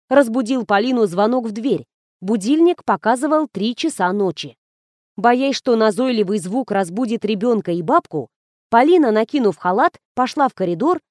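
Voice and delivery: ordinary delivery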